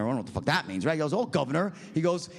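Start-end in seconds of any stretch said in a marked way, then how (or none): 1.1-1.7 light mock British accent; imitated London cabbie. London cabbie answering American passenger, lightly mimicked British accent. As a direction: greet like a London cab driver, British-accented. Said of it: "He calls me governor".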